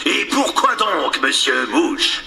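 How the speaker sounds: slow drawn-out pirate captain voice; Captain Hook voice. Acted. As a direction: lean on each word like the captain. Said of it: "toujours avec la voix de Crochet".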